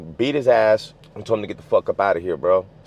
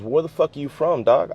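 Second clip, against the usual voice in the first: higher-pitched imitated confrontation; retold hostile challenge; 7 semitones higher than usual. Older guy challenging a twelve-year-old, retold hostile challenge. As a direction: demand it like a retold street challenge.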